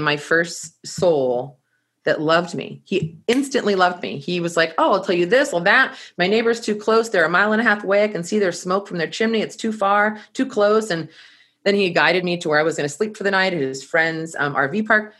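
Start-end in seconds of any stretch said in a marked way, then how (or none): 4.8-10.9 a higher, chatty complaint; lightly voiced Butch. Butch tells the traveler about his neighbors, lightly imitated griping. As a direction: lightly imitate a grumbling local.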